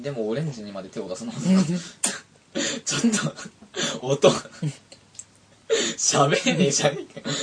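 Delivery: talking through a mouthful; chewing while talking; mouth full. Real, not acted. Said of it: "食ってて何も喋れねえじゃねえかよ". (口にものを入れたまま)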